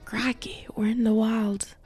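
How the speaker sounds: playful bad Australian accent spying on a sleeping dog. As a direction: whisper it in a bad Australian accent like a nature host. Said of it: "I'm really bad at accents anyways".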